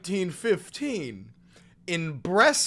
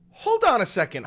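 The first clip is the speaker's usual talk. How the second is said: mock interrogation; 7 semitones higher, 5 dB louder, faster than usual. Interrogating Heinz.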